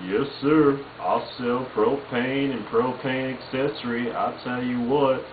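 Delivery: a hint of Hank Hill selling propane; Hank Hill impression. Vlogger does Hank Hill for viewers, lightly voiced. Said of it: "Hank Hill from King of Hill saying".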